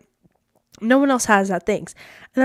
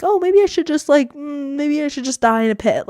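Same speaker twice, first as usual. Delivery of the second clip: higher-pitched self-pitying moan, hammed up; mock emo; 5 semitones higher than usual. Speaker acting out feeling not good enough, mock emo. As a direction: wallow in mock despair. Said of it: "it was really emo".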